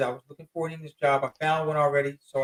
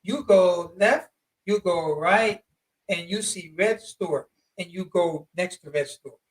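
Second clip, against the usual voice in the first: slow broken English directions; slower than usual. Retold or imitated. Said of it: "That's how they'll talk".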